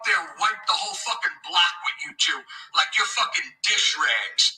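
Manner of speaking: imitating tough guy. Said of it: "trying to act like Nick".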